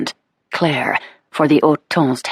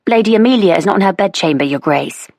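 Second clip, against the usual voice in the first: anxious maid; 4 semitones higher than usual. Acted. Maid reports missing lady.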